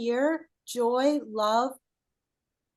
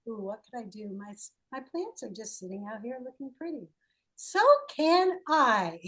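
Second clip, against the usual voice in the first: silly little voice; faster than usual. Retold or imitated. Coach mimicking a silly little plant voice for the client. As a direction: play a silly little plant voice, coy then cheeky. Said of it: "a silly little".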